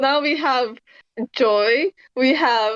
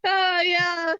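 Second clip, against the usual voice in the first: shaky forced laughter; nervous laugh; 3 semitones higher, much slower than usual. Retold or imitated. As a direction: laugh nervously, trying to play it cool. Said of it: "very nervous laughter".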